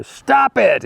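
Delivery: sudden high mock yell; retold yell. Shrink gives his patient the two-word cure, mock yelling. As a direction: imitate a comedian yelling, pitch shooting up. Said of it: "And he yells at her".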